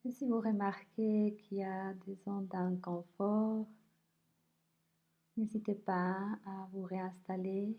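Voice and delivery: unhurried body scan voice, leaving space between phrases; guided meditation. Acted. Teacher guiding listeners through a body scan, calm guided meditation.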